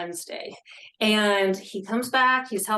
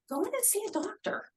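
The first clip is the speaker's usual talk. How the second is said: mimicking husband; 13 semitones higher, 6 dB quieter than usual. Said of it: "he would always say to me".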